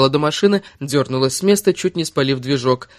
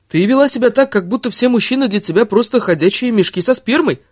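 higher-pitched, heated reproach; heated accusation; 8 semitones higher than usual. Acted. Man accusing his lover in a quarrel, heated.

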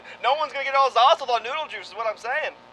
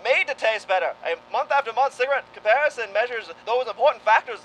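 1940s radio pitchman; smooth old-time commercial voice; vintage cigarette ad read. Acted.

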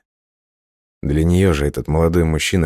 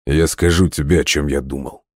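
through gritted teeth. Acted. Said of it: "Сквозь зубы процедил он".

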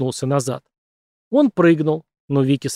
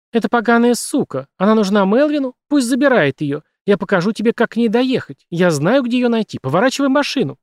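furious outburst; 8 semitones higher, 4 dB louder than usual. A narrator's reading. Woman lashes out at Vicki.

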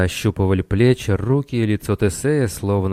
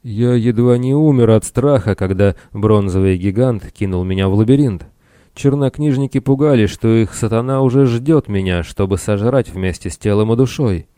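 animated, raised character voice; lightly voiced castaway sailor, agitated; 4 semitones higher, 3 dB louder than usual. Castaway confesses to the captain his fear, agitated. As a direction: tell the ordeal with acted vehemence.

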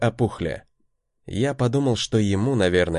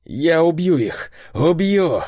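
loud, slow, higher vow of killing; furious shout; 7 semitones higher, 4 dB louder, slower than usual. A narrator's reading. Dex vows revenge, shouting in fury. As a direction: spit out the threat in blind rage. Dex raging after hearing truth.

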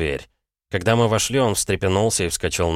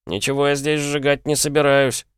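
higher, indignant call from an offended lad; 8 semitones higher than usual. A narrator's reading. Shop lad calls after departing customer, offended protest. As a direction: protest with hurt pride, voice pitched up. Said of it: "крикнул мне вслед парень".

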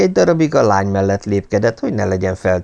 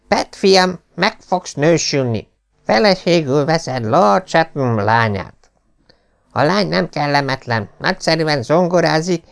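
raised, lightly voiced stern father; stern old lord; 8 semitones higher than usual. A narrator's reading. Lord Travers lecturing his thieving son, higher stern voice. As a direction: lay down the law to the heir.

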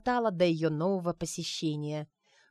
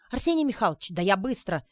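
вырываясь. Acted. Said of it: "вырывался парнишка".

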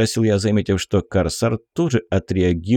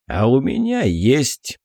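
breathy hiss through teeth; 4 semitones higher than usual. Acted. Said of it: "Архиупырь снова оскалился".

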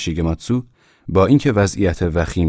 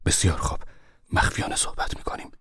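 very quiet whisper; 8 dB quieter, faster than usual. A narrator's reading. Uncle answering niece in the dark, whispered. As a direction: whisper back, conspiratorial. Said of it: "با صدایی خیلی آهسته گفت".

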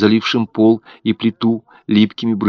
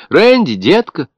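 high, louder and slowed, the name drawn out in worry; anxious calling; 9 semitones higher, 6 dB louder than usual. A narrator's reading. Mother calls again for her missing baby, drawn-out high cry. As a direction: call the child, fear creeping in.

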